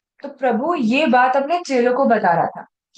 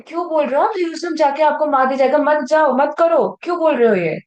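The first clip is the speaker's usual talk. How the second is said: higher, insistent acted plea; urgent protest; 4 semitones higher, faster than usual. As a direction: protest as a worried friend would. Acting Peter pleading with Jesus.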